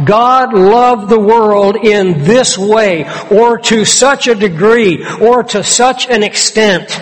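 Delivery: God loved the world in this way said slowly with weight; preacher driving the point home; slow emphatic. Shown as a demonstration. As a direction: stretch the phrase for emphasis. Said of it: "It's laying heavy emphasis".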